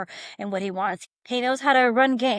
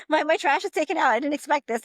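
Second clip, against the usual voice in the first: higher and louder, laughing amazement; delighted surprise; 6 semitones higher, 4 dB louder than usual. Retold or imitated. Sister delighted to find her trash taken out. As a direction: pitch it up, thrilled and caught off guard.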